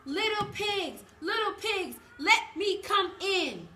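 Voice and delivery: high, loud wolf calling at the door; sing-song big bad wolf. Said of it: "he said".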